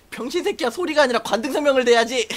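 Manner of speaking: high-pitched retold telling-off; acted superior correcting a screamer; mock scolding. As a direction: scold the junior in mock indignation.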